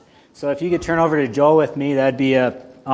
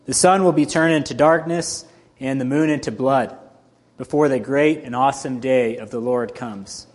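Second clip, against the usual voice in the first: steady, measured Bible reading; scripture reading. Acted. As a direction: read the passage with weight. Reads scripture passage aloud.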